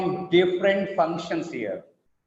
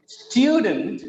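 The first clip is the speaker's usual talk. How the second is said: "Student" with a strong, higher first syllable; rhythmic word stress; 4 semitones higher, 3 dB louder than usual. Shown as a demonstration. Teacher showing English rhythm to class, stressed first syllable. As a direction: punch STU in "Student", let the end drop. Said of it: "you can see the rhythm here".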